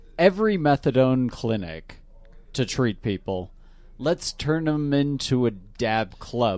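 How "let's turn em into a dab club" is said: slow, with the word club strongly stressed. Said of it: "Emphasis on the club".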